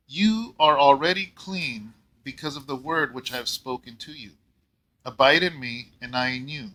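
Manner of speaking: measured, lightly formal Bible reading; scripture reading. Acted. Pastor reading Jesus' words to the congregation, measured. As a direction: read the verses with gentle weight.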